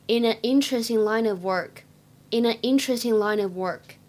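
"In an" and "line of" blended, said twice; linking. Shown as a demonstration. Teacher repeats the linked phrase twice for students. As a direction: glide "in an" into "interesting". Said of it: "可以连读".

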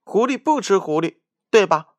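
high, loud, fast mouse voice; squeaky mouse. Acted. Mouse claiming to be a fox, high and hurried.

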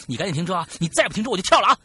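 yelling out the window to stop the car; building to a full yell; retold shout. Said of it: "大喊说".

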